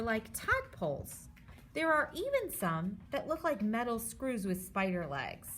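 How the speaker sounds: lively storybook read for a class; reading to children. Acted. Teacher reads the germs book aloud to her students. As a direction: read it like a picture book to kids.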